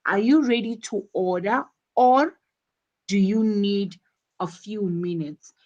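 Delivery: quick lift on "order", pause, fall on "minutes"; two choices, first rising, second falling on "minutes"; choice-question intonation. Shown as a demonstration. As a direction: raise "order or", then let "minutes" fall. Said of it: "rising intonation on order".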